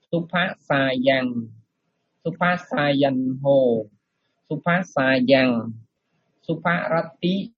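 slow, careful recitation; model reading. Shown as a demonstration. Monk demonstrating the verse for students, slow recitation. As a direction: spell out each Pali syllable slowly. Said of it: "sư sẽ đọc lại cho nghe ha".

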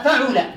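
فعل as fa'ul, u after the ayn; damma on ayn. Shown as a demonstration. Teacher lists noun patterns for students, damma on the ayn. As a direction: say فعل with a, then u: fa-'ul. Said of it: "الفاء وضم العين".

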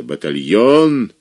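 протяжный грубый окрик командира; протяжно, грубо, как командир; командный окрик. Acted. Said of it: "и голос грубый, хриплый, протяжный". (протяжный командирский окрик)

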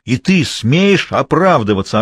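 slow, loud yelled outrage; yelling. Acted. Enraged man yelling at his mistress in their room. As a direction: hammer every word at her. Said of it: "орал Автандил".

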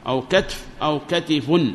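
first كتف "katf", second كتف "katifun"; contrasting dialect forms. Shown as a demonstration. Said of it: "فتقول في كتف".

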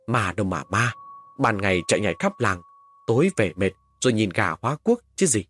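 a lightly voiced gruff father; dismissive, mildly scolding father. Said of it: "Bố tôi nạt lên một câu". (bố nạt nhẹ, gắt vừa phải)

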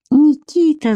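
high-pitched cry of his name. A narrator's reading. Captive Vika spots Nikita, crying out. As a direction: call out in shock, pitch leaping up. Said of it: "закричала она".

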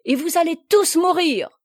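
loud, high threat; ringing death sentence. A narrator's reading. Noël condemning Plélan and his crew, ringing death sentence. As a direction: proclaim their doom. Noël pronounces their doom.

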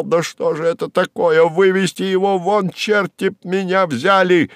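high, indignant mimicked outburst; exasperated outcry. Secretary imitating her exploding boss, exasperated outcry. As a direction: mimic the boss losing his temper. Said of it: "и он вскричал".

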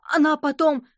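high, loud, slow drawn-out yell; shouting in chorus. A narrator's reading. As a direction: kids finishing her sentence for her. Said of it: "хором крикнули шестиклассники". (громко и медленно, хором)

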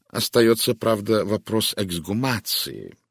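slow, pointed delivery of вопрос эксгумации; distinct, deliberate. A narrator's reading. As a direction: lay out each word clearly and slowly. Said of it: "отчётливо произнёс Пуаро".

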